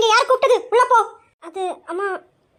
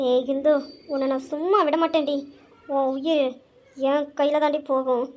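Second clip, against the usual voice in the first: low menacing threat; 5 semitones lower, 4 dB quieter than usual. Acted. Mother threatens the daughter who tricked her, low menace. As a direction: lower and softer, slow cold threat.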